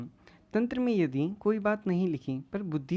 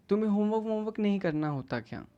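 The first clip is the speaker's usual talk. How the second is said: mock scolding, a little raised; taunting teacher; 3 semitones higher, faster than usual. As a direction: taunt the student like an accusing teacher. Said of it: "उसकी tone थी उससे ये पता चलता है वो उसे ताने मार रहा है". (ताना मारते हुए गुरु)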